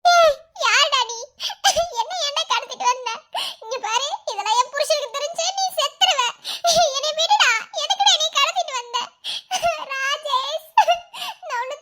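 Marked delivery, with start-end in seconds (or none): 0.0-9.0 laughing. Real, not acted. Wife kidnapped, struggling and laughing.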